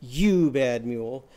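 slow scolding You bad mule; mock scolding. Shown as a demonstration. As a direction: scold the mule like a cross girl. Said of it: "scolded her mule by going".

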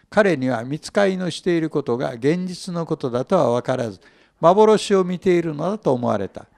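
聖書を朗読する落ち着いた声; 「第一、第二の衛所を通り」を一語ずつ区切って読む; scripture reading. Acted. Reads scripture passage. (会衆に向けて聖書を朗読する声)

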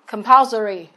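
"compulsory" đọc chậm, nhấn "pul"; đọc rõ "compulsory", trọng âm ở âm tiết thứ hai. Shown as a demonstration. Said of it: "trọng âm hai". (nhấn "pul" trong "compulsory")

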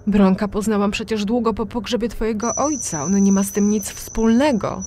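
high, loud, frightened explaining; frightened pleading. A narrator's reading. Terrified mother explains herself to daughter, high and loud. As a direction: plead in fear of her look. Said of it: "tłumaczyła przerażona moim spojrzeniem matka".

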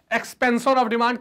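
very slow, each word apart; slow drilled term. Shown as a demonstration. Teacher drilling students on the English term, very slow. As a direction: lay the term out slowly. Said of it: "क्या कहते हैं?".

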